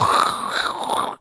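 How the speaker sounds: long voiceless hiss of bad reception; fake tunnel static. Host pretending to lose the caller in a tunnel, fake static. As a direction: imitate a phone breaking up. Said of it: "we're going through a tunnel".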